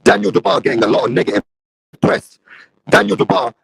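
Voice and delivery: streamer's voice crackling through a faulty mic; shorting mic. Real, not acted. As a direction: talk on through the static. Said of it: "my mic is still shorting".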